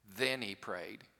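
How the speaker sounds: slow, with "Then" drawn out; stress on Then. Real, not acted. Preacher driving home the order of events, stressed "Then". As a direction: lean on "Then", low and deliberate. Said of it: "I emphasize the word then".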